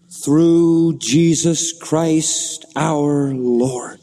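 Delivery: very slow, drawn-out declaration of victory; triumphant. Acted. Preacher reads out Paul's answer of hope, triumphant. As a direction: proclaim each word slowly, in triumph. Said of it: "That sounds like triumph to me".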